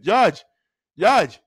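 mock Haitian accent on the name. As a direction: imitate a Haitian teacher calling a pupil. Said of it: "with the accent".

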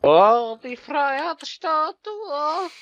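high, slow mock awe. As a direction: drag it out in mock wonder. Awed mock exclamation.

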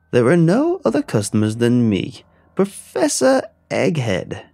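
high, slow booming egg monster voice; booming Egghead. Acted. A monstrous egg host booming his name at the screen. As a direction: boom it out like a deranged game show villain. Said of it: "The fever dream boomed".

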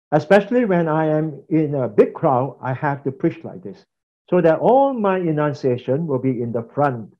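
projected big-crowd preaching demo; changed preaching voice. Shown as a demonstration. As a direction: place the words forward, as if preaching. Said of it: "I change my voice".

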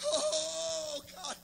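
hushed breathy plea to God; whispered aside to God; whispered prayer. Real, not acted. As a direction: breathe the prayer under your voice. Breathed prayer mid-sermon.

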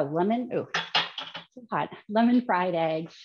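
ordinary talk

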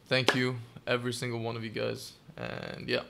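trembling voice, holding back crying; shaky voice. Real, not acted. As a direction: voice shaking, close to tears. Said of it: "Sorry if voice is shaky".

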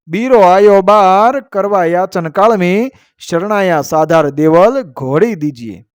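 measured, metrical couplet delivery; verse recitation. A narrator's reading. Storyteller reciting a couplet to listeners, verse recitation. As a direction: recite it as an old heroic verse.

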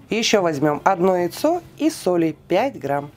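ordinary delivery

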